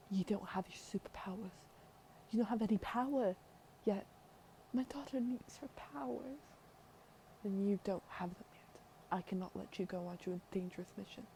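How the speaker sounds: put-on queen mother in a British accent; lightly acted British royal voice. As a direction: refuse your daughter in put-on British tones. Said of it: "I felt like giving her a British accent".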